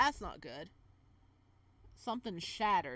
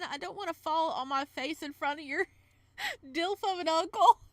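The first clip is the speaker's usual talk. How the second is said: laughing embarrassed; 6 semitones higher, 9 dB louder than usual. Real, not acted. Flustered joke about date's uncle.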